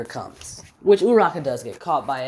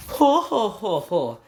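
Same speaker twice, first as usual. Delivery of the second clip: mock laugh; 6 semitones higher, slower than usual. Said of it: "as he's laughing".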